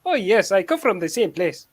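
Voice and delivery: lightly put-on African accent; imitated African accent. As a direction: play along in a mock African accent. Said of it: "this African accent".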